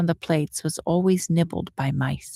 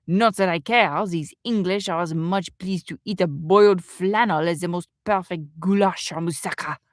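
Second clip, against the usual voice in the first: put-on French chef's accent. French chef goes on complaining.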